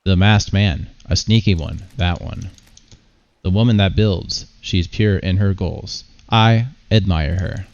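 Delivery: lightly voiced oracle, measured with pauses; brooding game figure. Reads a game figure's lines.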